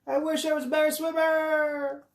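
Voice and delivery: put-on high small voice of young Kelp, wistful; Kelp wishing. Young narwhal swept away wishes he swam better, high voice. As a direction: pitch up into a little narwhal's wish.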